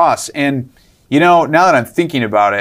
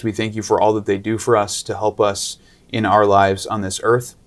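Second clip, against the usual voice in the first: prayer; 2 semitones lower than usual. Acted. And let's say a special prayer.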